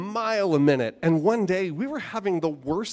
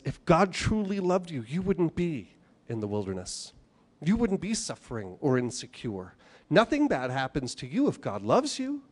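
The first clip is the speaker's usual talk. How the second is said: voice of the enemy. Retold or imitated. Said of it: "That's what the voice of the enemy sounds like".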